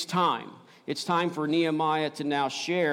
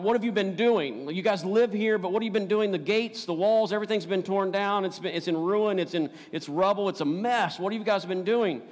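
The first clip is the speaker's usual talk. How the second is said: rising, louder mock scolding; preacher acting out a scolding leader, higher and louder; berating; 6 semitones higher, 3 dB louder than usual. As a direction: scold them like a fed-up official. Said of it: "like, berate them about".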